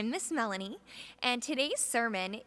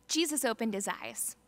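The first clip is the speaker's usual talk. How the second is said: put-on expressive children's story narration; storybook reading. Reading the Bible story to the families' children, lively storyteller. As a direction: read it to the kids like a storybook.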